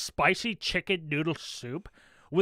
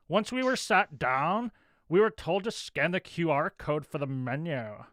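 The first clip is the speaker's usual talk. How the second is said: snooty reviewer voice; 3 semitones lower than usual. Acted. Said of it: "how I imagined she would have written this".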